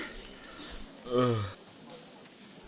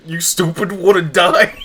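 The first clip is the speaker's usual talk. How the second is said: higher, louder put-on voice for the insult; mock character snap; 8 semitones higher, 8 dB louder than usual. Reading the character's rude text aloud.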